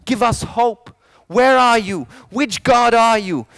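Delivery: acted desperate appeal, moderately loud; crying out. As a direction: call out to God for help. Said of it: "crying out".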